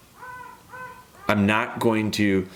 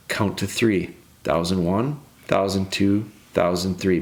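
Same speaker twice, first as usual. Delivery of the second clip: calming count; 3 semitones lower than usual. Shown as a demonstration. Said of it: "Take a deep breath".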